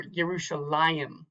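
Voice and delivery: slow "Yerushalayim" with the weight on "la"; stress on accented syllable. Shown as a demonstration. Teacher showing a marked accent, "Yerushalayim" slowly stressed on "la". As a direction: lean on "la" in "Yerushalayim". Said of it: "put a little more accent".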